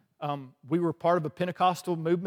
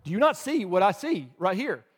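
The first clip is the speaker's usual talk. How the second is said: exasperated protest; 3 semitones higher, 5 dB louder than usual. Retold or imitated. Arguing with the Holy Spirit.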